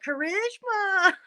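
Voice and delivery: drawing the name out slowly through laughter; a slow laughing taunt of Karishma; laughing call. Retold or imitated. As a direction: tease her name while cracking up. Teasing her with the dead snake.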